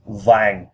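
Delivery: vàng gliding gently downward; falling tone. Shown as a demonstration. Teaching learners yellow or gold, vàng in a falling tone. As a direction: let the voice drop through vàng. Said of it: "a falling tone".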